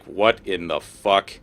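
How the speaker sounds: slow, low, stunned muttered oath; stunned disbelief. Acted. Irina seeing were-ravens in the inn, slow stunned disbelief. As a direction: draw the words out, low, in mild shock. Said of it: "Irina sees them and it's like".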